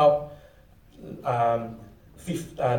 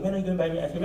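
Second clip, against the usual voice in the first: put-on softer whining plea from a kid; nagging child; 2 semitones higher, 5 dB quieter, much faster than usual. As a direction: keep pestering like an impatient child. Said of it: "you just keep asking".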